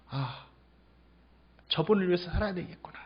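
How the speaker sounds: soft, hushed musing; inner thought. Acted. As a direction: murmur it quietly to yourself. Acted inner resolve of a believer.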